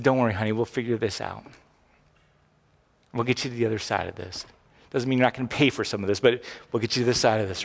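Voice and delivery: calm her down kindly; reassuring dad. Retold or imitated. Father comforting his tearful daughter, softly reassuring. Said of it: "I showed mercy".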